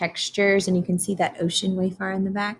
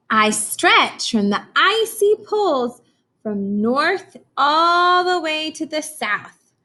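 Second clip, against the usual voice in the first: storybook reading. Acted. Teacher reads storybook aloud.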